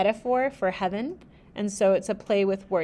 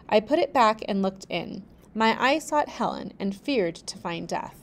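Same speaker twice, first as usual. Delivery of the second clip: steady storybook reading; measured narrator voice; story narration. A narrator's reading. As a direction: read the tale aloud, even and clear. Reads the novel aloud.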